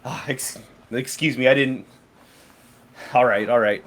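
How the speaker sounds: sighed, halting concession; sighing. Acted. Game master as shopkeeper backing off, mildly sighing. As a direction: back down with a sigh. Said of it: "she kinda just sighs".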